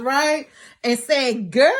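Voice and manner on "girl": mimicked high-five "girl", rising sharply; imitating his "girl". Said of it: "he starts to give her these high fives".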